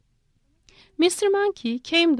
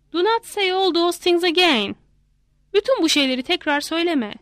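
mild monkey scolding; 5 semitones higher than usual. A narrator's reading. Monkey scolds his wife.

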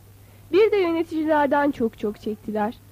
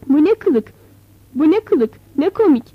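put-on louder, laughing scornfully at the old man; mocking laughter; 2 semitones higher, 6 dB louder than usual. Rich Fehmi Ağa mocks the old nomad, laughing loudly. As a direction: jeer through laughter at his clothes. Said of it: "diye durmadan gülüyor".

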